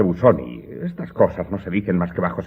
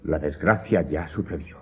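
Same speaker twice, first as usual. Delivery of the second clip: low and much softer, heavy; hushed grief; 5 semitones lower, 8 dB quieter than usual. Acted. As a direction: let the dread weigh on it. Servant confesses past tragedy.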